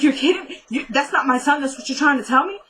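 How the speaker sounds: imitating a stunned father losing it; shocked outrage. Randall hearing paternity results, high shocked disbelief.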